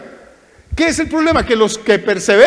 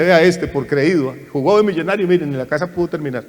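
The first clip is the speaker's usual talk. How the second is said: mocking jeer; 3 semitones lower than usual. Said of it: "se va a burlar".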